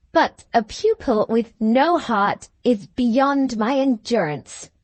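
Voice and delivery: put-on slow, lightly accented foreign master; a hint of a teacher's broken English, drawn out. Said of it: "he said in his broken English".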